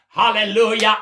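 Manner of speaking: loud joyful praise shout; shouted hallelujah. Real, not acted. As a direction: call it out to the congregation. Preacher exclaims praise.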